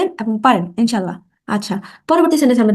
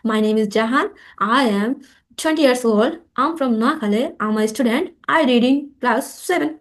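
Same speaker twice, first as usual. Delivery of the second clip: slow drill repeat; much slower than usual. Shown as a demonstration. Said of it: "আমি আবারও বলি".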